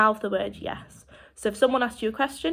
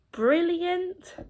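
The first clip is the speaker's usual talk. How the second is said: higher-pitched show of feeling brilliant; upbeat reply; 8 semitones higher than usual. Shown as a demonstration. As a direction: demonstrate a delighted answer, pitched well up. Demonstrates replying that she feels brilliant.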